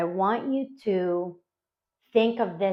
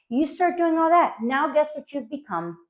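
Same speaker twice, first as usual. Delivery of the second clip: ordinary talk, nothing marked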